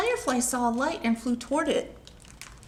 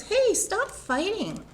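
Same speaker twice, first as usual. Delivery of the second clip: mild scold; 9 semitones higher than usual. Retold or imitated. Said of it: "She says".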